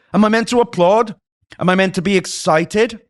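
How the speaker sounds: high-pitched, incredulous questioning; indignant, rising high at the end; exasperated disbelief. Real, not acted. Rhetorical questions venting at AI hype.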